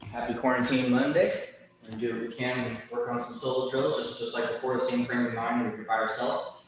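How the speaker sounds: out of breath; after a workout. Real, not acted. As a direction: still winded from exercise. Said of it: "Sorry, I'm still catching my breath".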